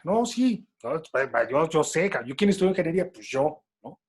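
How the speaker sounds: insistent know-it-all. Retold or imitated. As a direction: cut in insistently, mock self-important. Acted retort of the know-it-all engineer.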